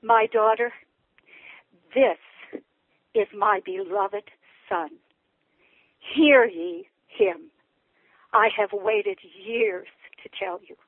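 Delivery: slow, measured, gently spaced words; sweetest voice. Retold or imitated. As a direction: imitate a tender heavenly father, unhurried. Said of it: "he said in the sweetest voice".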